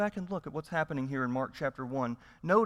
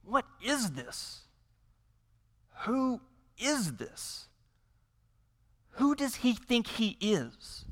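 indignant onlookers; 6 semitones higher than usual. Retold or imitated. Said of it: "and they say".

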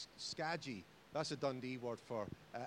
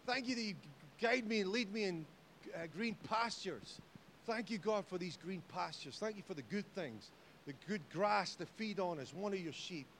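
prayerful; 3 semitones higher than usual. Retold or imitated. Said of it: "And I say".

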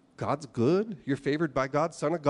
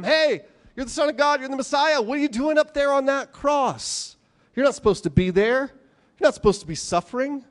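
higher, louder mocking taunt; mocking jeer; 10 semitones higher, 5 dB louder than usual. Crowd mocking Jesus on the cross, loud and high.

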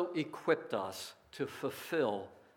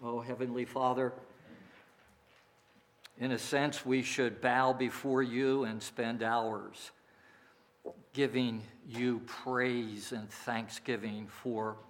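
prayer. Acted. Pastor leads closing prayer.

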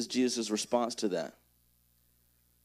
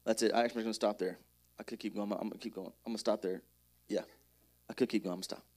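muttering to self; 7 semitones lower, 10 dB quieter, faster than usual. Real, not acted. Mumbling to himself, undecided.

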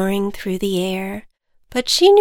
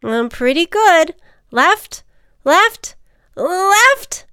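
much higher, louder navigating ant; 10 semitones higher, 8 dB louder, slower than usual. Acted. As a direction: call out directions, then relief. Ant directs, relieved.

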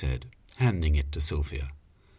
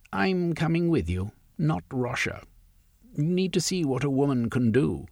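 higher, firm woman's voice; Sylvia defiant; 8 semitones higher than usual. Acted. Sylvia insisting she joins the raid, high and defiant. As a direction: claim your place on the raid.

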